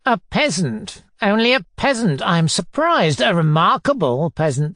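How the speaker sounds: mock-amazed questioning, rising to a demand; mildly sarcastic inquisitor; pompous tyrant. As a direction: pile on scornful questions. Narrator plays Foma interrogating.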